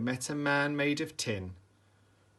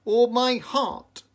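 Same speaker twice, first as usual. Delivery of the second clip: Tin Man; 12 semitones higher, 9 dB louder, slower than usual. A narrator's reading. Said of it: "said the Tin Man".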